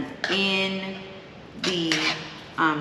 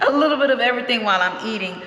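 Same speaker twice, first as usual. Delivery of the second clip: laughing; 6 semitones higher, 3 dB louder, much faster than usual. Real, not acted. Laughing while describing eating.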